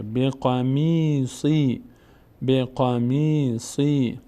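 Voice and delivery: می and سی with drawn-out "ee"; long vowels. Shown as a demonstration. Teacher reading mim and sad before ya, long vowels. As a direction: hold the ee in می and in سی.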